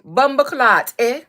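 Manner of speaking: mock Toronto accent, punched out; Toronto accent attempt. Shown as a demonstration. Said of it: "Somebody said Toronto accent".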